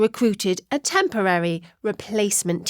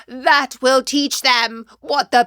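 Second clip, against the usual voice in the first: spat out. Acted. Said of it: "who spat out".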